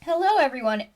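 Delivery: bright polite greeting for customers; customer service voice. Real, not acted. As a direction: customer service voice, cheerful and polished. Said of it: "I put on my customer service voice".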